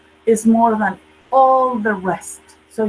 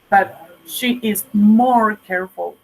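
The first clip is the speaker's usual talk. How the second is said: slow, with "more" leaned on; teacher's emphasis on more. Shown as a demonstration. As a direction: hold out "more careful" for the class.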